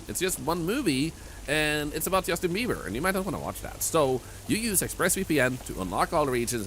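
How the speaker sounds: upbeat sponsor pitch; ad read. Acted. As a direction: sell it like an ad.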